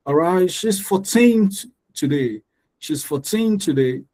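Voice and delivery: put-on "fourteen" with TEEN high and long; stress on TEEN. Shown as a demonstration. Teacher to class: "fourteen" stressed on TEEN. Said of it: "The teen".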